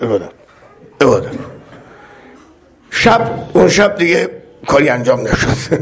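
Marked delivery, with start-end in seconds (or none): 0.0-1.3 incredulous echo. Retold or imitated. Yusuf repeats her word, bemused.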